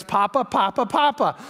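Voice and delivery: lightly imitated excited children; imitated eager grandchildren. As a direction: mimic grandchildren clamoring for grandpa. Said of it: "first words you're gonna hear".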